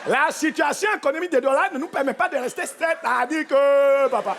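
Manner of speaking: very slow, halting c'est-à-dire que; imitating the newcomer from Douala; hesitant newcomer. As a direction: drag every word like a new arrival. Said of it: "tu parlais comment?".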